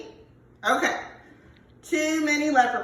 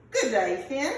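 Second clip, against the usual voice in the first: Aussie twang on good day; Australian accent; 2 semitones higher than usual. Acted. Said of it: "That was Australian".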